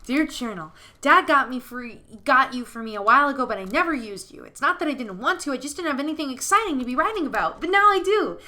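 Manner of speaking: put-on bouncy child reading his diary aloud; boyish, singing-out enthusiasm with big pitch swoops; excited scarecrow boy. Boy writes about his new mom, excited and childlike.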